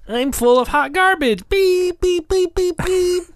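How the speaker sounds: loud high robot. Acted. Robot character keeps beeping.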